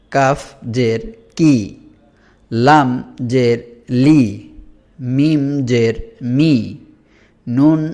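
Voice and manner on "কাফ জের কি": কাফ said slowly with a forceful push on the first sound; pushed qaf. Shown as a demonstration. Teacher showing pupils the pushed letter slowly. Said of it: "এটা ধাক্কা দিয়ে পড়তে হবে".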